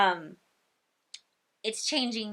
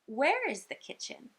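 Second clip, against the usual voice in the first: put-on lightly raised child-directed voice; gently asking a child; 5 semitones higher than usual. Speech pathologist to a little girl, child-directed question. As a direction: ask it higher, as if to a small child. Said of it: "I tell the little girl".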